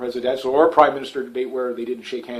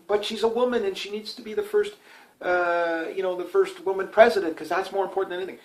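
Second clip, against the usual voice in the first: a touch higher, sarcastic singsong; mock the idea, faster at the end; 3 semitones higher, 7 dB quieter than usual. Vlogger mocking voters who want a woman president, sarcastic. Mocking her supporters' reasoning.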